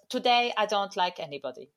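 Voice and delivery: a light attempt at an Italian accent; mock Italian accent, barely there; Sarri's Italian accent. Quoting the manager in a weak Italian accent. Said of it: "I was trying to do his accent".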